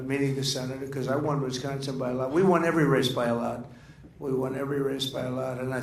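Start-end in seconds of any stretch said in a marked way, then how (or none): 2.3-3.7 louder boast, punching it out; loud, proud claim; emphatic boast. Real, not acted. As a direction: hammer home the win. Boasting about election wins.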